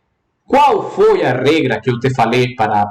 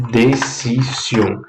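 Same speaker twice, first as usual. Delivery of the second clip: "Decisão" slowly split in three, Spanish de-ci-sión; broken into syllables; 3 semitones lower, much slower than usual. Shown as a demonstration. Teacher locates the accent for students, slow separate syllables. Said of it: "Passo número um. Vou quebrar".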